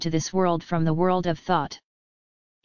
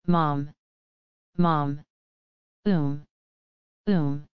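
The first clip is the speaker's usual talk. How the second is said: lightly voiced child whimpering for mom; a small lost child sobbing, read gently; child crying; 3 semitones lower, much slower than usual. A narrator's reading. Lost child in the ruined hall calls for mother, a touch of crying. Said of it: "the terrible crying voice".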